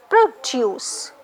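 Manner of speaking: "Produce" as pro-DUCE, second syllable long; weight on the last syllable of "Produce", falling; stress on DUCE. Shown as a demonstration. Teacher showing verb stress, second syllable stressed. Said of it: "stress will go here, deuce".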